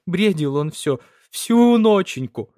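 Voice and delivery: tearful, voice rising high and slow; tearful widow sobbing to the priest. A narrator's reading. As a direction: sob it out, pitch climbing on ноченьку. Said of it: "Всхлипывая".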